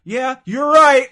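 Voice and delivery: loud, slow, high mock whisper; a whisper that booms; loud fake whisper. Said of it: "the whole time he'd be like".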